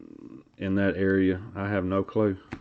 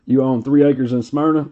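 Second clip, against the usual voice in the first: impression of that boy; 3 semitones higher, 7 dB louder than usual. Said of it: "I do spot-on impressions of that poor boy".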